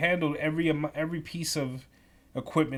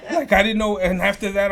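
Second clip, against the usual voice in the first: louder and higher through laughter; laughing; 5 semitones higher, 9 dB louder than usual. Real, not acted. Laughing at the memory.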